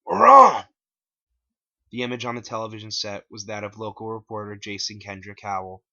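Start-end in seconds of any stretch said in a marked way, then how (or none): 0.0-0.6 high, loud excited call; high loud announcement; Bob's voice. A narrator's reading. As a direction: call everyone to the TV. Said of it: "said Bob".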